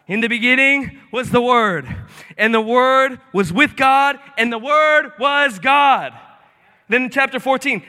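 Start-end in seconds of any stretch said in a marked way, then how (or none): 0.1-6.1 solemn scripture reading. Acted. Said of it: "reads scripture again".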